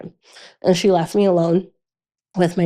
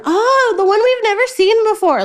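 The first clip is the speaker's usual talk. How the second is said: higher, mocking sing-song jab at mom and daughter; mocking dad. Dad teasing his wife and daughter about rewatching movies, mocking higher voice. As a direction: sneer like a teasing father. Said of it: "my dad used to always come in".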